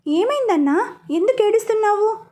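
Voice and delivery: holding back laughter. Acted. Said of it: "నవ్వు ఆపుకుంటూ".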